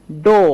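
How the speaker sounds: ডো, loud, with "oh"; wrong "oh" vowel. Shown as a demonstration. Teacher shows a common mistake, loud ডো with "oh". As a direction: say a loud ডো like "dough". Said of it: "অনেকে ডো বলবে".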